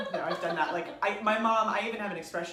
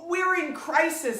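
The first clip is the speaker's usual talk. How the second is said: higher, louder, slow mock crisis call; retold alarm; 9 semitones higher, 10 dB louder, slower than usual. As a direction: play up the crisis. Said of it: "the word that I used was".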